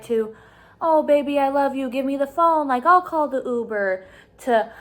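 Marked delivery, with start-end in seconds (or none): 0.8-4.0 imitating a drunk man suddenly sweet, a bit higher; lightly hammed-up honeyed "baby" tone; mock sweet talk. Imitating the drunk husband cooing at his wife, mock sweet. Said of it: "he would switch up on her".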